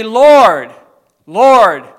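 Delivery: loud, high plea for help; a sinner crying out loud for mercy; desperate cry to God. Pretend. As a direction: cry out to the Lord at the altar. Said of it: "and we would say".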